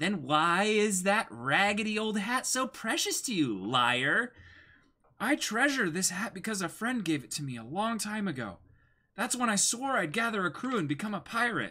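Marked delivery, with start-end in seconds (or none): 0.0-4.3 put-on pointed, extra-sassy girl voice. Voicing one character confronting another in an acted scene, sassy. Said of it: "channel a little bit more sass into her voice".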